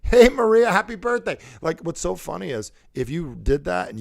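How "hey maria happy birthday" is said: high, excited birthday greeting; tone for Maria. Shown as a demonstration. Calling Maria on her birthday, high and excited. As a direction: sing out a delighted hello. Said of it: "a different tone for different people".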